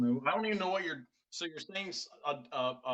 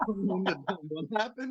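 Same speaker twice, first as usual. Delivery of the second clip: laughing quote; 4 semitones higher, much slower than usual. Retold or imitated. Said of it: "his dad was like".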